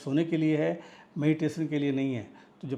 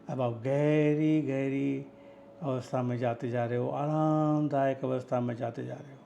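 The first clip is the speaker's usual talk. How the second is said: guided meditation. Acted. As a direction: guide the listener into relaxation, pausing between phrases. (निर्देशित ध्यान की धीमी, ठहरी हुई आवाज़)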